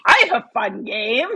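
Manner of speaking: high, slow sing-out of delight; mock cheerful. Imagining her friend's upbeat outlook, mock cheerful. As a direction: chirp it with playful enthusiasm.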